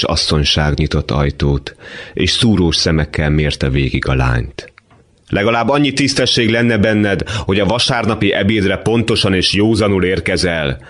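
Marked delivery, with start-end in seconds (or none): 5.3-10.8 higher, stern scolding mother; a hint of a shrill landlady scolding her son; mother scolding late son at Sunday lunch, stern.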